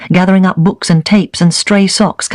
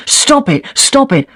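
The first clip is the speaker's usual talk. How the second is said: retold scream; 8 semitones higher, slower than usual. General in a pub yelling down the phone, high mock scream. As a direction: pitch it up like a man yelling down the phone. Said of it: "Then he started screaming".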